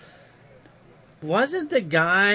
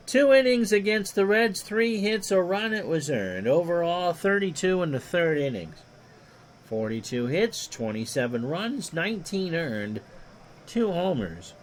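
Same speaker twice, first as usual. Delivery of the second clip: lightly voiced old radio play-by-play; a hint of a veteran baseball announcer; Ron Juckett impression; 2 semitones higher than usual. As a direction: call it like a ballpark broadcaster, easy and even. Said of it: "I do a mean Ron Juckett impersonation".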